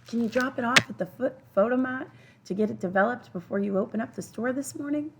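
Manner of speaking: put-on high-pitched eager boy; eager request. A narrator's reading. Boy asks old man to develop his film, eager.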